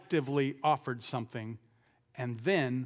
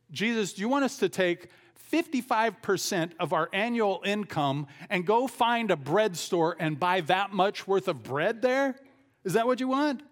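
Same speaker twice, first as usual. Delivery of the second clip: cynical disbelief; 3 semitones higher than usual. Retold or imitated. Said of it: "it's also filled with some cynicism here".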